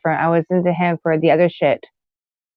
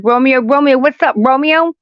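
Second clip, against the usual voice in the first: lightly voiced, higher and louder mock Romeo; mock casual Romeo; 7 semitones higher, 3 dB louder than usual. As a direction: toss off Romeo's line like a casual greeting. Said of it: "you think it's just like".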